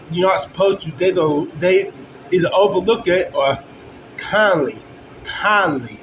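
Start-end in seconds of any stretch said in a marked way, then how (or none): 4.2-4.8 "kindly" set apart by pauses, falling; stress on kindly. Shown as a demonstration. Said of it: "emphasize on that word kindly". 5.2-6.0 "kindly" repeated alone, with a deliberate fall; stress on kindly. Shown as a demonstration. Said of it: "emphasize on that word kindly".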